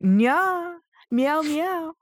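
very high squeaky cat meows; cutesy nya speak. Pretend. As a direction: squeak like a cartoon kitten. Cat sounds playfully.

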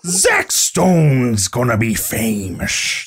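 slow, stretched Cockney drifting into pirate; badly faked Cockney, every word drawn out; attempted Cockney accent. Shown as a demonstration. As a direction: deliver a line read in piratey mock Cockney. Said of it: "That's pirate".

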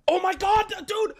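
high, loud burst of real surprise; a loud real oh my God; sudden realization. Real, not acted. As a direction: blurt it out as it hits you. Sudden memory mid-story.

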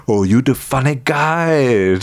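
put-on slow Austrian-accented Arnold line; amused slow Austrian accent; Arnold impression. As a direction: drawl it out like Schwarzenegger. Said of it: "He's like".

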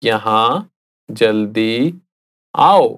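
यहाँ जल्दी, pause, आओ; said slowly. Shown as a demonstration. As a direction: split in two with a pause. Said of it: "I'll say it again slowly".

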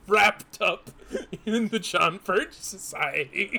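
words breaking up with real laughter; laughing while talking. Real, not acted. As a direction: struggle to get it out through laughs. Amused at the donors' identity.

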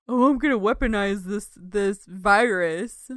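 a hint of a DNA splicer guy, slowing down. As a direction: put on a slight scheming scientist act. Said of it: "your D N A splicer guy impression".

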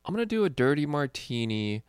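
lampoon the comic's fussy order; mock pretentious customer. Mocking the comic's bar order.

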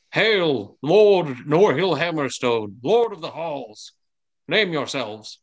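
high, drawn-out herald's hail; bellowed hail. Acted. Father announcing Lord Norhill to strangers, bellowing. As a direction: hail them grandly, stretching the titles. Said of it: "your father bellows out".

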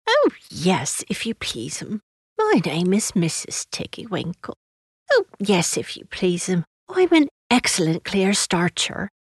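a hint of a humble country servant; lightly voiced washerwoman. Washerwoman introducing herself to Lucy, lightly rustic and deferential.

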